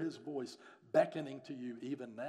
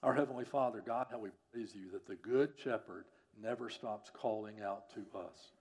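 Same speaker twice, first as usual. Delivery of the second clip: earnest public prayer in measured phrases; pastoral prayer; 3 dB louder than usual. Real, not acted. Pastor prays to God for the congregation, earnest prayer. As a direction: lead the congregation in prayer, pressing on key petitions.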